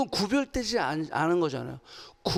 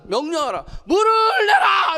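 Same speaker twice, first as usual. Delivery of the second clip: commanding shout; 8 semitones higher, 5 dB louder, slower than usual. Shown as a demonstration. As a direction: build to a high, drawn-out shouted order. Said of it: "이렇게 명령하라 그랬어요". (길게 끌며 외치는 명령)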